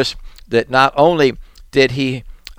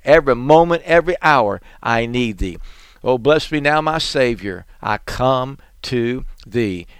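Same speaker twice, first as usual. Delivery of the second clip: hushed prayer. Acted. Hymn-like prayer, fading.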